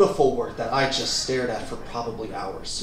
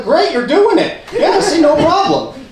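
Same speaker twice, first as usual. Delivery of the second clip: high, loud over-eager cheering; hammed-up, high-pitched encouragement; mock encouragement; 14 semitones higher, 8 dB louder than usual. Gym worker cheering on a novice at the ropes, over-enthusiastic.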